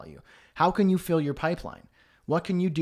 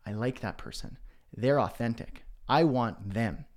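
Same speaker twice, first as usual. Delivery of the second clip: impressed audience member; 3 semitones lower than usual. Acted. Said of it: "then your audience goes".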